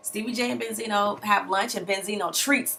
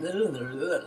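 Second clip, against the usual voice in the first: mock sultry moans; 2 semitones lower, 4 dB quieter, slower than usual. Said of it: "like, just nasty".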